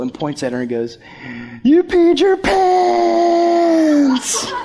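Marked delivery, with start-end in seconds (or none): 1.6-4.5 put-on loud, high-pitched kid's taunt; screamed taunt. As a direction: yell it out, stretching the last word. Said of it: "Screams it right in the".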